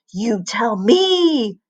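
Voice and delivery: slow, menacing snarl. A narrator's reading. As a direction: threaten him slowly. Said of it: "she snarled".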